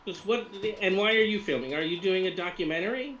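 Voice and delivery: put-on high Russian-accented questioning; lightly voiced Russian woman; Russian woman influencer, curious.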